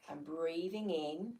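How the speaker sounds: measured breathing-exercise guidance, long pauses; guided meditation. Real, not acted. Teacher leading listeners through easy breathing, guided meditation. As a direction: talk them through each breath, leaving room to follow.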